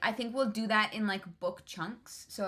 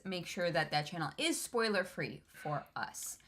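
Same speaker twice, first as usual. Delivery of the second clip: hiccuping; 3 semitones lower, 4 dB quieter than usual. Real, not acted. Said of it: "I'm, like, hiccuping".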